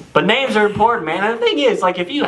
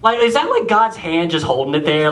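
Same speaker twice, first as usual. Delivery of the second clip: high, puzzled wondering; incredulous to his friend, pitched up; baffled question; 8 semitones higher than usual. Retold or imitated. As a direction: marvel at the mystery to a friend. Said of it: "I go".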